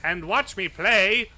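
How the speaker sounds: loud, slow, grandiose alien voice; dragon voice. Pretend. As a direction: boom it out like a creature pretending to be human. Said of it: "Is that better?".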